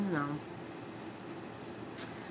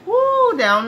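laughing woo; 12 dB louder than usual. Real, not acted. Laughing about the name mix-ups.

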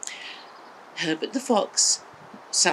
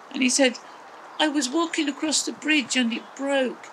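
Rollo relieved; 8 semitones higher than usual. A narrator's reading. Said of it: "And Rollo said".

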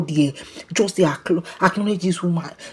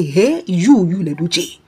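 retold shock; slower than usual. Kanayo reacting to Lady J's visit, retold shock. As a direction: act taken aback, lightly. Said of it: "na so he shock".

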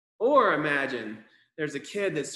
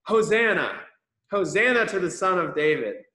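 louder, ringing call of hosanna; shouting praise; 4 dB louder than usual. Shown as a demonstration. Showing the children how to shout to the sky, loud and joyful. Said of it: "I want you to shout up into the sky".

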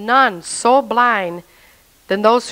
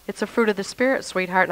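peaceful woman; 2 semitones lower, 5 dB quieter than usual. Retold or imitated. Church woman reassuring an angry new believer, peaceful and soft. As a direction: lightly imitate a calm, reassuring mentor. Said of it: "How can this woman be so peaceful?".

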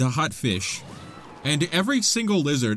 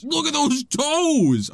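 delighted squeal; 13 semitones higher, 5 dB louder, much slower than usual. Real, not acted. Delighted by creature photo.

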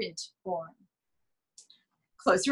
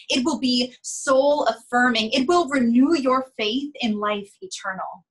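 grand build; 4 dB louder than usual. Acted. Sales pitch swells grandly.

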